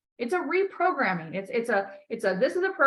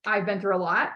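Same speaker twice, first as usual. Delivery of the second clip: affirmation demo; 3 semitones lower than usual. Shown as a demonstration. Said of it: "You need to stop and say".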